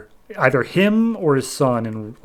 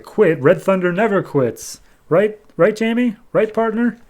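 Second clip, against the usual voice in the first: insistent protest; 9 semitones higher, 4 dB louder than usual. Retold or imitated. Dad insists he never quits.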